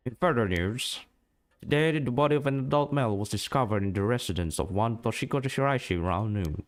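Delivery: formal TV news read; news announcer voice. Acted. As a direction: read it like an evening news anchor. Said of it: "The announcer voice".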